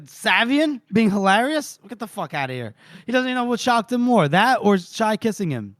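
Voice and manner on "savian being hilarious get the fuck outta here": retold scoffing disbelief; incredulous scoff. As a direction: stretch the question, toss off the rest. Acting out a character's disbelief.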